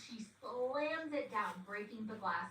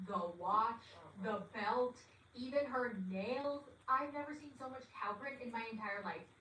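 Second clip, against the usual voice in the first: amazed. Real, not acted. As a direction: gape at the outfit. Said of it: "amazed at cow print".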